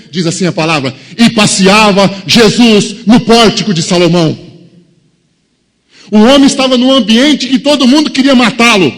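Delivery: loud, rising sermon delivery; full-force preaching. Acted.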